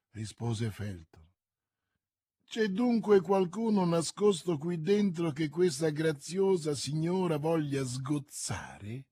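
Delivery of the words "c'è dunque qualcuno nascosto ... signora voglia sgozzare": lightly mock her with contempt; mocking and scornful. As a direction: Lord de Winter taunts Milady, mildly scornful. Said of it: "con voce beffarda e sprezzante".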